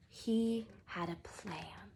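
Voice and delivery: slow, hushed whisper; slow whispered aside; secret whisper. A narrator's reading. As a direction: let the plan slip out like a secret. Narrator drops to secretive whisper.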